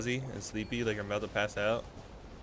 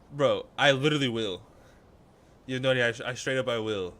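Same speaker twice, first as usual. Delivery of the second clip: louder, eager burst of yes; excited; 2 semitones higher, 6 dB louder than usual. Real, not acted. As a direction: jump at the invitation. Eager invite to meet up.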